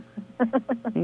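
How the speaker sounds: brief, quiet chuckle; soft laugh. Real, not acted. Caller after asking on a friend's behalf, soft laugh. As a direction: laugh softly under the breath.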